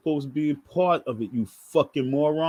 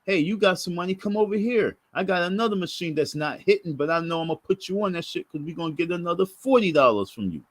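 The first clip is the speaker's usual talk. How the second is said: a hint of a coaxing casino attendant, quicker at first; imitating the slot attendant; 3 semitones higher than usual. To the narrator at the slot machines, lightly voiced coaxing attendant. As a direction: mimic her sweet-talking a big spender. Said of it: "And she said".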